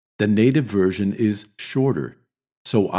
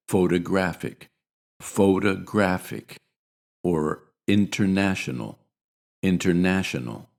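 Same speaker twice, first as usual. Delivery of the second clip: "photographic" with light stress on pho and main stress on graph; "international" with light stress on in and main stress on na; two-level stress; primary and secondary stress. Shown as a demonstration. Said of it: "primary stress and a secondary stress".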